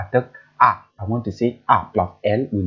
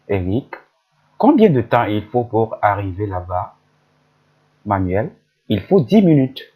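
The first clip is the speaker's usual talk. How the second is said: lightly voiced newcomer and local, a bit louder; role-played dialogue; 3 dB louder than usual. Teacher voicing Manuel and Eric asking the way, lightly acted. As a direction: read both parts of the dialogue clearly. Reads a conversation, two roles.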